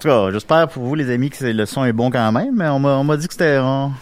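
muffled behind a face mask; through a face mask. Real, not acted. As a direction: talk through a cloth mask. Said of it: "avec un masque sur le visage".

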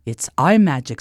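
low wizard's voice; low-pitched proud conjurer; knowing magician. A narrator's reading. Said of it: "said the magician".

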